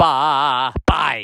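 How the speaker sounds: glottal bleating lamb voice. Recalling an axe-wielding lamb, in a bleating lamb voice with a glottal catch. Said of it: "that lamb thing where it's bah. You know, there's that glottal thing".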